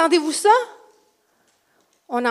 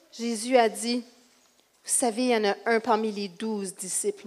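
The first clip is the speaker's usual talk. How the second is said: subdued, weary retelling with pauses; grieving mother Mary; 4 dB quieter than usual. Acted. Mary recounting Jesus' warning at the special meal, subdued.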